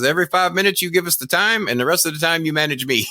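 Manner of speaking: =high mock Japanese accent; fake Japanese accent. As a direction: explain it in a put-on Japanese accent. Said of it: "fake Japanese accent".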